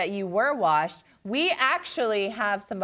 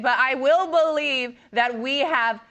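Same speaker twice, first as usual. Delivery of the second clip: big, drawn-out announcer delivery; show announcer; slower than usual. Acted. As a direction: build up the title fight like a ring announcer. Announces the final matchup.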